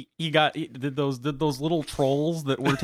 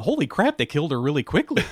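shocked reaction. Retold or imitated. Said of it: "I thought".

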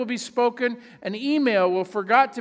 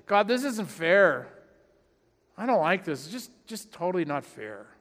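mock pouting; 3 semitones lower than usual. Pastor mimicking a pouting Paul, mild whiny sulk. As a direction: sulk like a child who didn't get his way. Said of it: "He could have just pouted and said".

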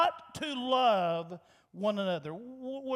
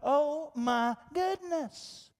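mock exasperated reader; 2 semitones higher, slower than usual. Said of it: "readers of this are going".

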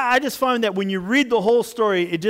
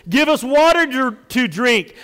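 loud, high insistent demand; 6 semitones higher, 7 dB louder than usual. A narrator's reading. Thirsty people turning on Moses, demanding. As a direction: push each word out forcefully. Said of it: "they demanded".

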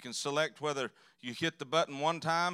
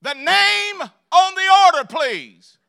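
much higher and louder, squawking the request; shrill drive-thru worker; 21 dB louder, slower than usual. Retold or imitated. Preacher mocking the drive-thru worker, high loud squawk. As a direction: honk it out like a goose. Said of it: "she run her head out there like a goose".

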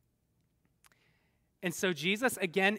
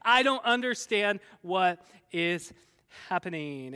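high, loud hammed-up panic, slowing and fading at the end; mock panicked screaming; 5 semitones higher, 5 dB louder than usual. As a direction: imitate terrified men crying out, then run out of steam. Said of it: "And they screamed".

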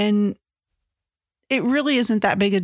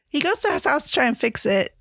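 amused, giggly retelling, pitched up; laughing; 4 semitones higher than usual. Real, not acted. Retelling a favorite scene from the book, laughing. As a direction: talk through a real laugh.

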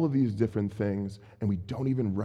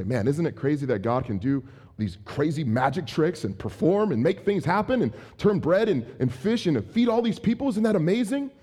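higher-pitched imitation of excited marveling; mock amazement; 4 semitones higher than usual. Congregation marveling at the miracle, mock amazement. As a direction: marvel at it like an excited onlooker, voice climbing. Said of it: "get excited about this miracle".

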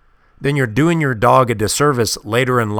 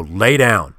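slightly lowered voice, falling at the end; lowered command voice; 2 semitones lower than usual. Shown as a demonstration. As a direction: demonstrate a firm order to a dog. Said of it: "lower your voice and go".

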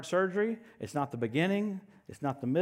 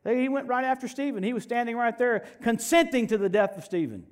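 ordinary delivery

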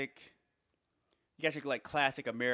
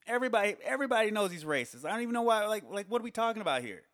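higher and louder, fast repeated insistence; exasperated; 8 semitones higher, 4 dB louder, faster than usual. Real, not acted. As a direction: hammer the point home in disbelief. Exasperated comic rant.

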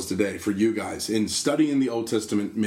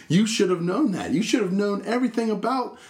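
mock scolding Jesus; 11 semitones higher than usual. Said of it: "He's like".

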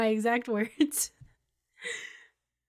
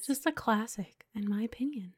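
whispering; 8 dB quieter than usual. Real, not acted. Aside in hushed voice.

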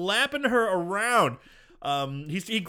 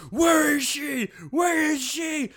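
higher, shouted demand; mock yell; 8 semitones higher, slower than usual. Detective yelling into the woman's face, mock shouting. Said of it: "yelling into her face".

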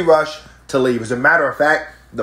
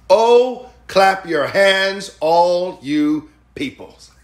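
lively psalm reading; 3 semitones higher, much slower than usual. Shown as a demonstration.

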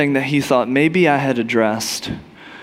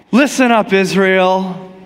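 firmer command; 3 semitones higher, slower than usual. Retold or imitated. Moses tries again to command Israel, raised and firmer. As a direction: push harder, stand taller. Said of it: "raises the staff a little higher".

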